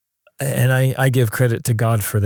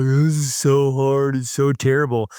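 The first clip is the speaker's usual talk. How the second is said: mock grumpy whining. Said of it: "grumpy and whining and complaining".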